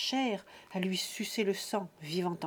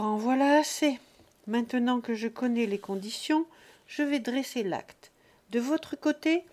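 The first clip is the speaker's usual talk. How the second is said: calm notary; 3 semitones higher, 4 dB louder than usual. Acted. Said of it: "il conclut paisiblement".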